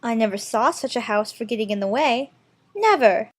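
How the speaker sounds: put-on high girlish exclamation; mildly exasperated, pitched well up; cried out. A narrator's reading. Alice complaining about the house in her way, mildly crying out. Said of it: "she cried".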